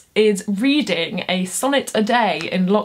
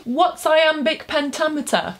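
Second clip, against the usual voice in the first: higher, asking like a curious student; eager pupil's question; 6 semitones higher than usual. Pretend. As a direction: play the keen kid with a question. Student asks teacher.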